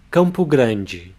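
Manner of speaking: Campo Grande said slowly as KAHM-poo GRAHN-jee; slow Portuguese pronunciation. Shown as a demonstration. Teacher models the capital of Mato Grosso do Sul for students, slowly. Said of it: "The next one is".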